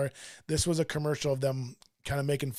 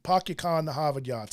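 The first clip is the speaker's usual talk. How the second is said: attempted Boston accent. Shown as a demonstration. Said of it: "I cannot do the Boston".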